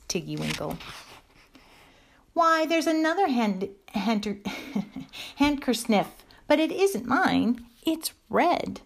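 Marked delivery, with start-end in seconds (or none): 2.3-8.8 put-on high, puzzled little girl; surprised child. A narrator's reading. Lucy finding a handkerchief not hers, high surprised voice. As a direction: exclaim high like a child making a find.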